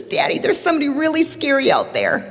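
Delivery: put-on high-pitched child telling on something scary; scared little boy. Storyteller as boy telling daddy of scary stranger, high child voice. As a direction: plead up high like a frightened child. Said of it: "And he says".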